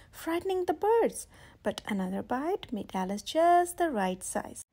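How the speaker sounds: put-on gentle read-aloud for children; storybook reading. A narrator's reading. Reading a picture book aloud.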